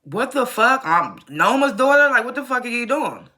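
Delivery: high mock-shocked outburst; a lightly acted double take; retelling Brayden's shock at Tariq's news, mock outrage. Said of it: "And Brayden's like".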